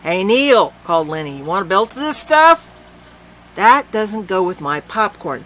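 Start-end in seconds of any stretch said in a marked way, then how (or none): 0.0-0.7 calling out. Acted. Lenny calling out. 1.4-2.7 voiced character. Lenny offering a drink. 3.6-5.4 put-on slow, higher girl's voice; young girl voice.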